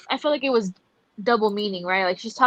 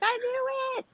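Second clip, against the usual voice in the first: retold yell; 6 dB quieter, slower than usual. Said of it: "I was yelling".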